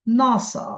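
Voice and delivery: নাসা with a long, strong না; stress on first syllable. Shown as a demonstration. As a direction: lean on the না in নাসা. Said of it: "সেখানে প্রথমে জোর হয়".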